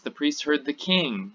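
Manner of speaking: "king" picked out as the key word; emphasis on king. Shown as a demonstration. Teacher showing which word the emphasis falls on, stressed "king". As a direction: land firmly on "king", the one they heard. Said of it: "here the emphasis is".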